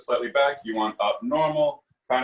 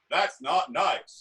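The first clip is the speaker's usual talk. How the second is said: anchorman announcer voice, higher pitch; 5 semitones higher than usual. Repeating a vocal resonance exercise, say the line in an anchorman kind of voice. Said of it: "anchorman kind of voice".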